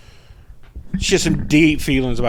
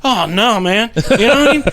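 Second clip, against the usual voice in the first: laughing; 10 semitones higher, 7 dB louder than usual. Real, not acted. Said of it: "I'm scared to shit".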